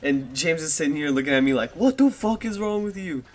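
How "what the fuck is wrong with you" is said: high-pitched mock outrage at a friend; retold exasperation. Friend reacts after capsized kayak.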